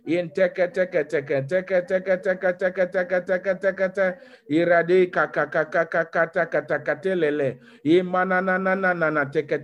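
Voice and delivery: rapid rhythmic glossolalia; speaking in tongues. Acted. Pastor praying in tongues before the church, fervent. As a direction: pour out syllables in prayerful flow.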